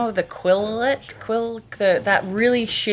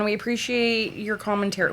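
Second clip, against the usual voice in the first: sarcastic; 5 dB quieter than usual. Pretend. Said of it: "We don't".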